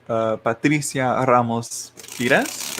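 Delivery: slow Spanish pronunciation of Patricia Ramos Pires; Spanish accent. Shown as a demonstration. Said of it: "saying that in my Spanish accent".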